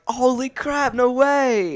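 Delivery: retold surprise. Retold surprise at meeting mentor.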